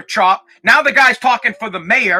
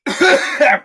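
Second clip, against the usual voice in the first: cough; 2 semitones higher than usual. Real, not acted. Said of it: "It flew right into my fucking mouth".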